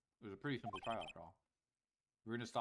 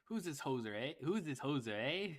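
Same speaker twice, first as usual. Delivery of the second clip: playful, hammed-up Canadian eh; lightly done Canadian accent; 3 semitones higher, 4 dB louder than usual. Streamer joking about a Canadian character, mock Canadian accent. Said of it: "he's Canadian".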